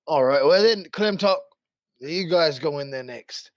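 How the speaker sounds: lightly voiced guard captain, disbelief giving way to orders; a hint of an incredulous commanding officer; sceptical guard captain. Game master plays guard captain.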